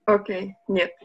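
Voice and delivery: usual speaking voice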